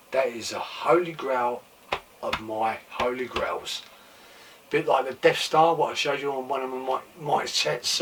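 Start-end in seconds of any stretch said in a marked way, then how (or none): 4.7-8.0 hoarse, voice giving out; losing voice. Real, not acted. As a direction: talk with a failing hoarse voice. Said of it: "I'm losing my voice".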